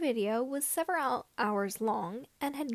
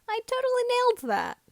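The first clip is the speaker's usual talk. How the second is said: sarcastic boast; 13 semitones higher, 7 dB louder, faster than usual. Real, not acted. Author joking about word count.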